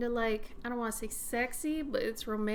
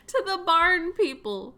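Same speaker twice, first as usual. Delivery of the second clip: higher and louder, slowed by laughter; laughing repeat; 7 semitones higher, 11 dB louder than usual. Real, not acted. Streamer repeating her friend's joke, laughing hard and loud. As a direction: savour the silly phrase through a laugh.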